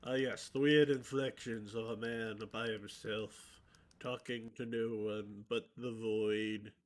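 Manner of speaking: low, mock-brooding monologue; hammed-up tragic musing; overly dramatic. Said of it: "being overly dramatic is just as fun".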